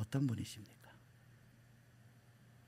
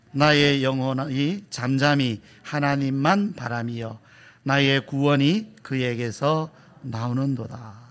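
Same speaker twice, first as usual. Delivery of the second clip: slow, measured, lower recitation; scripture reading; 3 semitones lower, slower than usual. Real, not acted. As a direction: lead the congregation through the verse phrase by phrase. Leads congregation reading scripture.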